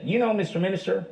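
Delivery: a light Texas drawl, imitating Governor Bush. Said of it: "You have to do it with the drawl".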